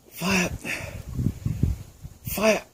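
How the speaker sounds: high barked order to fire; barked firing squad commands. Pretend. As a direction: shout it like an execution officer.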